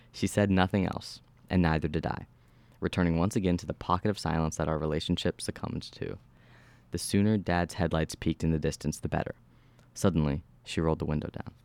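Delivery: measured horror-story narration; steady storyteller reading. A narrator's reading. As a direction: read the story aloud with even, controlled delivery. Reads horror story aloud.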